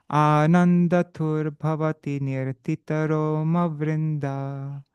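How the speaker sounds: slow, measured chanting of a verse; slow devotional recitation; Sanskrit verse recitation. Acted. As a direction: intone each word slowly like scripture.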